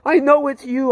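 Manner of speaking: high, loud cry of recognition; screaming. Retold or imitated. Man held by Jesus keeps crying out loudly. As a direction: shout it out, overwhelmed with joy. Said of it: "I started screaming at the top of my lungs".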